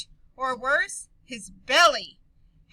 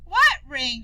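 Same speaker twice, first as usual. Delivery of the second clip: puzzled question; 7 dB louder than usual. Acted. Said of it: "Dolores asked".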